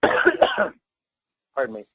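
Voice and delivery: coughing, clearing a fly from the throat; just swallowed a bug. Real, not acted. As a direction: cough it out, then excuse yourself. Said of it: "I think I swallowed a fly".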